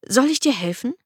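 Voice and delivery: hoch und laut gerufene Begrüßung der Frau; Ehefrau. Acted. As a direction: die Frau ruft ihren Schatz von hinten. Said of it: "hörte ich meine Frau hinter mir". (Stimme der Ehefrau)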